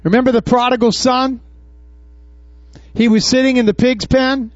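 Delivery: normal talking voice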